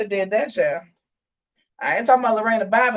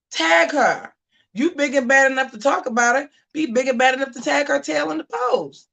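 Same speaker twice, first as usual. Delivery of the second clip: telling Danae off, pitched up; retold scolding; 3 semitones higher than usual. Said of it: "I said".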